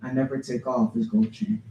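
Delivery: measured poem reading with phrase-by-phrase pauses; poetry reading. Acted. Poet reads to an audience about Pops, measured recital. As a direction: recite it line by line, leaving space between.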